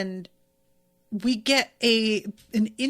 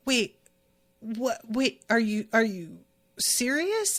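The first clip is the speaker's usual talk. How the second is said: stunned disbelief. Retold or imitated. Bon Clay realizing he's accepted.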